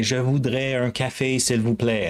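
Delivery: a light mock-clumsy tourist try at French. Shown as a demonstration. Showing tourists how to order coffee in Montreal, lightly mock-clumsy French. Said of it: "sound probably like Wookiee style".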